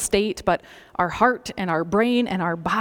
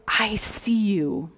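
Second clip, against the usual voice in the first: slow, tender declaration; hushed and intimate; slower than usual. Acted. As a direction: say it slowly, as to a kindred soul. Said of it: "an expression of deep love".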